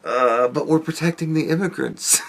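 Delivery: soft amused delivery, holding back laughter; softly laughing line. Pretend. Retelling his baddies joke, amused and soft. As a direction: say it through a quiet chuckle.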